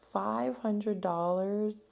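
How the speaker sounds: drawn-out, disbelieving question; incredulous. Real, not acted. Uninsured patient reacting to the specialist's fee, incredulous. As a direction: stretch each word in disbelief.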